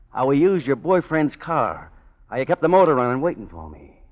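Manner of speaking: threatening. Acted. Gangster threatening blackmail.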